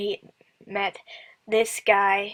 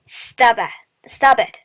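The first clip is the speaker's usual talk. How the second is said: louder, playful stop it; laughing protest; 7 dB louder, much slower than usual. Real, not acted. Player scolding herself for the accent, laughing. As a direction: tell yourself off through laughter.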